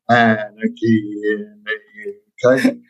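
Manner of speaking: put-on slow sung line in a Geordie accent. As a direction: sing it again in Geordie accent. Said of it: "do it in a Geordie accent".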